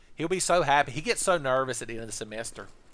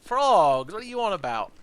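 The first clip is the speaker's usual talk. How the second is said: a lightly voiced cocky student, louder; mock student scoffing; 3 dB louder than usual. Student brushing off the teacher, loud and scoffing. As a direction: scoff at the idea like a smug kid.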